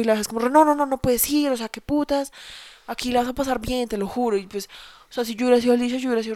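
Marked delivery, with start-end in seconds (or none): 0.4-4.4 mock pushy sister. Sister insisting, retold.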